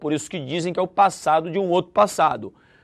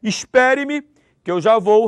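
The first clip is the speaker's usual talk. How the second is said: higher, brighter "Espere-me"; mock order; 4 semitones higher, 4 dB louder than usual. Shown as a demonstration. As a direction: give "Espere-me" lightly. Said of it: "entre aspas, a ordem".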